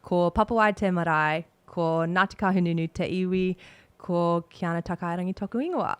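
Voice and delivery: steady, formal recital of her pepeha in Māori; reciting pepeha. Shown as a demonstration. Teammate reciting her pepeha on request, formal and steady. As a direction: deliver it as a proud formal introduction. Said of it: "So here we go".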